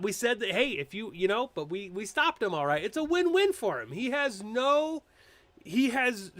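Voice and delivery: normal talking voice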